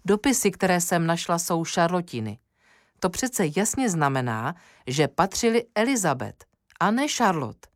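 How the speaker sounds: Emílie eagerly arguing her discovery. Acted. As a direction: pitch rising with agitation. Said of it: "Emílín hlas se položil do vyšších tónin".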